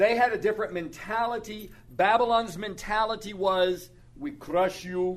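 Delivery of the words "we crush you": put-on speaking with Russian accent. Describing Babylon's mentality, slipping into a Drago-like Russian accent. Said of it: "why did I go into a Russian accent?".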